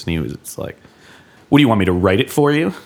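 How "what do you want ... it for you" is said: fast, exasperated imitation of Will; mock exasperation. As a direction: toss it off quickly as Will would. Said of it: "in his loving, hating, "fuck you, I love you" way".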